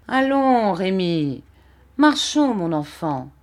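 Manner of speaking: high call, dropping at each name; urging onward. A narrator's reading. Vitalis urges the child to walk, calling. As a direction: call him on, then let the pitch fall.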